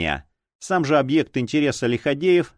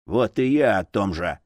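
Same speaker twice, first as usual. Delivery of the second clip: gloating; 3 semitones lower than usual. Acted. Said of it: "злорадно произнёс алхимик".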